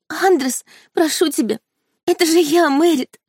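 high, tearful pleading; tearful plea. A narrator's reading. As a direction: beg him through tears, voice up high. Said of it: "со слезами на глазах повторяла девушка". (высокая мольба сквозь слёзы)

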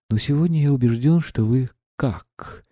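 put-on a young woman bursting out, half-accusing; exclaiming. Aglaya flares up at the prince, exclaiming. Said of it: "вскричала Аглая".

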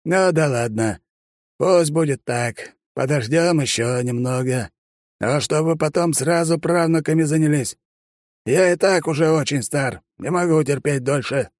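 put-on crafty old man pressing about the wedding; sly old man. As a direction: tease like a mischievous granddad.

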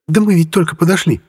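put-on high girl's voice, a bit daring; risky reply. A narrator's reading. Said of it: "рисковато отреагировала Орхи". (звонко и рискованно)

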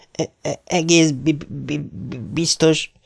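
magasabb, megakadó, ismételt szótagokkal; dadogva, félénken préseld ki a választ. A narrator's reading. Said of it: "felelte Beard Lambro". (a dadogós fiú félve felel Harrynek, dadogva)

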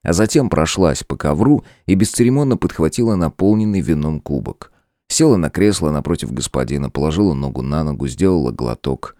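usual speaking voice

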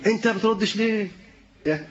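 mock-angry father asking why his son won't answer. Shown as a demonstration. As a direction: scold the son like an irritated father. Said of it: "بس بهدوء ولا بصوت عالي".

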